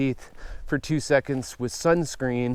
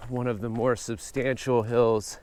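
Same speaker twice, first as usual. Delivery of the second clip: winded from the uphill climb; puffing between words on a hike; out of breath. Real, not acted. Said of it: "I am out of breath".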